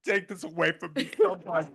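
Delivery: teary plea to be rescued; choked up, giving up mid-speech; brought to tears. Real, not acted. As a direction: beg off through real tears. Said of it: "I brought myself to tears".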